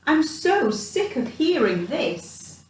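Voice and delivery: slow, high, weary mouse grumble; fed-up mouse. Acted. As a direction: drag it out, sick of it all. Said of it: "thought Mouse".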